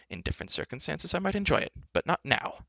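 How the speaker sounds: high, mildly uneasy voice; a touch of dread, pitched high; shuddering bard. Acted. Bard aside to companions, mild shudder. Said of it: "he added with a shudder".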